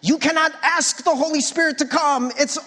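lightly mock the know-it-all critic. Pastor mimics a critic correcting him, mild mocking whine. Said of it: "I did that mocking voice".

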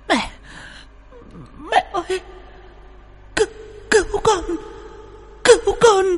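high, choked cry for help; nearly suffocating. Acted. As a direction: force out each word as if being strangled. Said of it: "cất cái giọng như thể sắp sửa chết ngạt".

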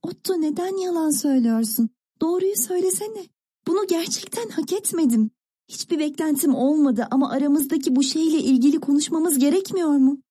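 high, gentle reproach; understated tearful tenderness, pitched high; soft, tearful plea. A narrator's reading. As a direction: plead kindly, a touch of tears. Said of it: "çok yumuşak ve hoş bir tavırla".

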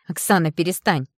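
loud, sharp outcry; crying out. Acted. Mother silencing her friend, loud sharp outcry. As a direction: snap at her to stop. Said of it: "выкрикнула мама".

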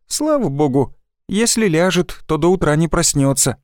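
relieved sigh. Acted. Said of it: "облегчённо вздохнула его жена".

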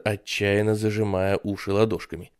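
usual speaking voice

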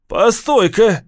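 high, loud sudden yell. Acted. Gang kid halting Steve before he brings Vera, loud yell. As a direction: stop him in his tracks with a yell. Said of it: "завопил один из ребят".

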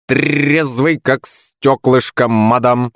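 high, slow, tipsy squawk; a drunk bird insisting he's sober; drunk parrot shout. A narrator's reading. Drunk parrot assures the lady he's sober, slow squawk. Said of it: "выкрикнул попугай".

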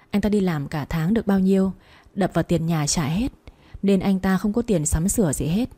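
plain reading voice

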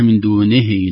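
"دونه" said as "دونهْ" with the kasra lost; "دونه" read with the nun vowel dropped; wrong reading. Shown as a demonstration. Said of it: "تصبح كأنها". (نطق خاطئ بلا كسرة)

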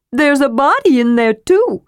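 high, lively kender voice; eager and breathless. A narrator's reading. Kender voice, raised.

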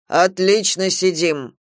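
slow obedient repeat. Acted. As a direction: repeat it slowly like a sleepy parrot. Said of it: "повторил ангел".

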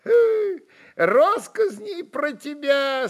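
high laughing cry; laughing exclamation. A narrator's reading. Frol laughs telling Stepan the gossip, high. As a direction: blurt it out through a laugh. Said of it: "со смехом воскликнул Фрол".

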